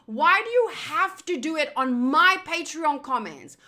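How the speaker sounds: loud exasperated rant; angry. Real, not acted. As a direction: demand it, fed up. Ranting at a commenter.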